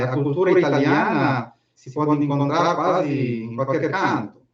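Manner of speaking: Portuguese with a strong Italian accent; Italian speaker mixing in Italian words. Real, not acted. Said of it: "io sono italiano e falo un portoghese, un poco macaronico".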